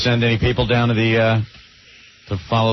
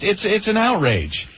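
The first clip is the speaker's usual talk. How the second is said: put-on high-pitched voice; 8 semitones higher than usual. Shown as a demonstration. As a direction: say it up high, falsetto-ish. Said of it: "I'll speak in a high voice".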